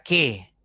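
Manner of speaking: «qué» tónico, dicho con fuerza; acento en «qué». Shown as a demonstration. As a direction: golpea el «qué» al final. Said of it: "Lleva tilde". («qué» fuerte, como palabra acentuada)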